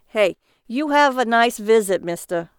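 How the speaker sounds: loud, friendly cab driver farewell; cabbie voice. Acted. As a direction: call after him like a cabbie.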